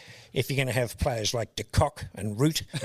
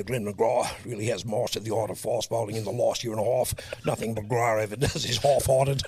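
put-on South African commentator accent; South African accent, sing-song commentary; Tony Greig voice; 3 semitones lower than usual. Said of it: "I found it easier to do him".

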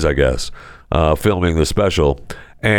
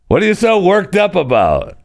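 mock high question; 11 semitones higher than usual. Rattling off the dangerous questions.

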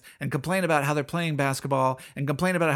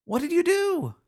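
emphatic repeat; 13 semitones higher than usual. Real, not acted. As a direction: hit it hard the second time. Repeated louder to drive it home.

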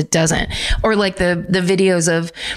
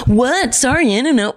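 put-on higher, startled teen voice; mock flustered kids; 5 semitones higher than usual. Kids caught by the woman, startled and flustered. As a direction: play the caught kids, confused. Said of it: "they're like".

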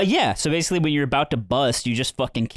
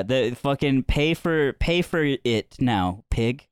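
slow, deliberate mock order; mock demand; much slower than usual. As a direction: spell out the demand word by word. Mock demand to pay for Patreon.

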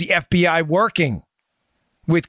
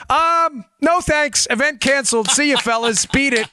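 much higher, breezy mock Trump brush-off; dismissive Trump impression; 11 semitones higher than usual. Mocking Trump cancelling the Eagles event, high and dismissive. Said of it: "Trump's like".

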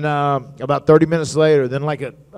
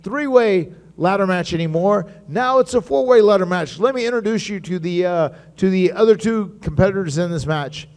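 higher, excited announcement voice; Mark Carrano announcing; 6 semitones higher than usual. Retold or imitated. Manager announcing a new team to the wrestlers, higher and excited. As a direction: hype up the surprise addition. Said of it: "He says".

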